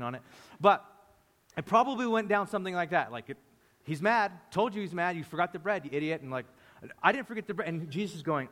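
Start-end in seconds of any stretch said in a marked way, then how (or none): 3.8-6.2 squabble like annoyed companions; mock bickering. Disciple blaming another for the bread, mock bickering. Acted quarrel among the disciples. 7.0-7.7 higher-pitched protest, lightly acted; mock defensive retort. Accused disciple denying he forgot the bread, mock defensive.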